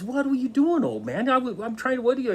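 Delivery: high, loud, frantic cry of a half-drowned man; a man bursting up from the water, high and loud in shock; panicked gasping outcry. Retold or imitated. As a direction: sputter it out in alarm as you surface. Man surfacing after being held under.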